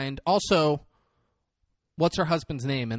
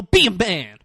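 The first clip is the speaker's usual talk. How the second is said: firm mock scolding; 5 dB louder than usual. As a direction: order him to toughen up. Retold bully scolding the weaker one.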